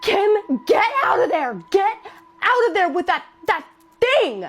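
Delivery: high, loud, frantic warning yell; terrified nurse shrieking a warning; panicked scream. Retold or imitated. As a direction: scream at her to get out now.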